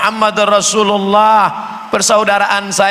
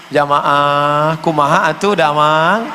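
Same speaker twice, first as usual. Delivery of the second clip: lembut ala Sunda; 4 semitones lower, slower than usual. Pretend. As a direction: coax the crowd sweetly, Sundanese-style. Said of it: "ceramah lembut". (sapaan lembut logat Sunda)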